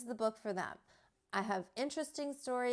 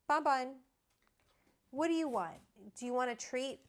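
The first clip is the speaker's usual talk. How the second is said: high sing-song voice for the dog; high cooing dog talk; pet talk; 4 semitones higher than usual. Real, not acted. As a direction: coax the dog, pitched up. Calling her dog for a treat.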